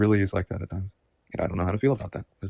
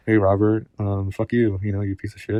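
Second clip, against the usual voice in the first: retold taunting voice; 7 dB louder than usual. Voice in his head insulting him.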